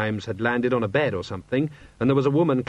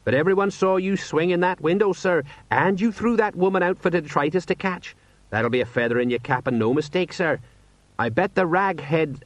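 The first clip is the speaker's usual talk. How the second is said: higher-pitched voice bursting with pride; proud sergeant; 6 semitones higher than usual. A narrator's reading. Sergeant praising his commander's rescue, proudly. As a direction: gush with pride by association. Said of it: "bursting with pride by association".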